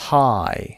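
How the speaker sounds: "Hi" gliding from "ah" into "ee"; diphthong. Shown as a demonstration. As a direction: join both vowel sounds in "Hi". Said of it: "صدای آ و یا با هم اومدن". («Hi» با ترکیب صدای آ و ی)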